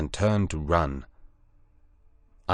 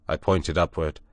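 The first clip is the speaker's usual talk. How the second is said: plain reading voice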